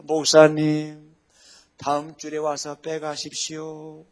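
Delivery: slow, deliberately calm retort; calm reply. Retold or imitated. Pastor calmly answering an accusing pastor, slow and polite. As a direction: answer him slowly and politely, winning by staying calm.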